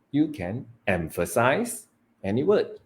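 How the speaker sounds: emphasize set apart with a rising swing; stress on EMPHASIZE. Shown as a demonstration. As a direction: lean on the word emphasize. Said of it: "emphasizing different words".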